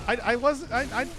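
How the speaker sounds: high-pitched, stammering motherly reassurance; mock-tender mother, high voice; imitated mom. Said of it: "And she's like".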